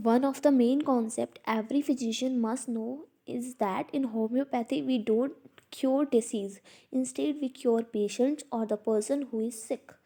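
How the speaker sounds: reading the principle out slowly, word by word; slow textbook reading. Acted. Teacher reads the principle aloud to students, slow and deliberate. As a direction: dictate it to the class at a crawl.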